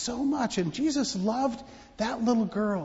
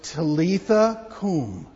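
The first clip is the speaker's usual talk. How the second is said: "Talitha cum" said louder and slow, firmly; with conviction; 6 dB louder, slower than usual. Shown as a demonstration. Pastor showing the children, "Talitha cum" with conviction. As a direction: say "Talitha cum" like you mean it. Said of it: "say it with some conviction".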